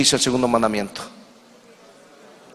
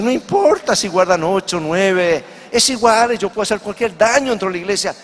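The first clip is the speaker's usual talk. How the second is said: higher, lightly acted devil's boast; dismissive devil; 4 semitones higher than usual. Devil dismisses the Sabbath to the church, lightly mocking boast. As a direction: voice a hint of a careless, scornful devil. Devil voiced brushing off the commandment.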